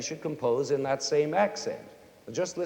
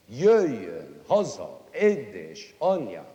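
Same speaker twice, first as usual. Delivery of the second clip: first syllable of "Jöjjön", "haza" and "édesanyám" punched loud; first-syllable stress; 3 semitones lower, 5 dB louder than usual. Shown as a demonstration. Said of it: "accented on the first syllable".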